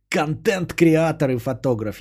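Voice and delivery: slow, pompous self-important voice; mock pompous title. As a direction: sneer the title out slowly. Mocking title again.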